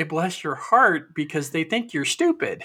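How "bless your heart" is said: slow Southern put-down. Shown as a demonstration. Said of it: "Southern people will say".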